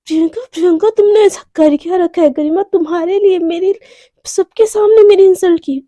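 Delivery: mildly acted indignation, pitched slightly up; angry outburst. Anaya fuming at Priyanka over the insult, mock angry. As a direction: play it as a retold huff of anger. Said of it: "गुस्से में एकदम ना".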